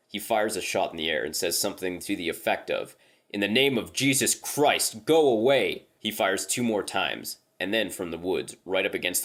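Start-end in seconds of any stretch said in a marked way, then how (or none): 3.3-5.8 loud, high, rising shout; commanding shout. Retold or imitated. Reese on the porch yelling at the thing in the woods, loud command. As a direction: bellow it into the woods to banish it. Firing rifle, banishing the creature.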